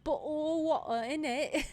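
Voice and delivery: high, loud laugh-cry; words breaking into laughter. Real, not acted. Laughing while crying out.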